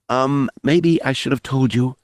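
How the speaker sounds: put-on a young man owning up, nervously muttering; muttered nervously. A narrator's reading. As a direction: confess it sheepishly under your breath. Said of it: "the young Corrin muttered nervously".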